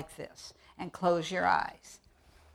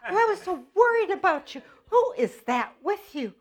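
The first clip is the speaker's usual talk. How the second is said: much higher, loud quavery granny; old granny voice; 11 semitones higher, 7 dB louder than usual. Pretend. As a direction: greet them as a fussing granny. Granny repeats.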